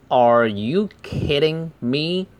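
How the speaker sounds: purse the lips for ARE, then lift the pitch on ME; careful R. Shown as a demonstration. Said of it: "R不要读成啊". (ARE 撅嘴读，句尾ME上扬)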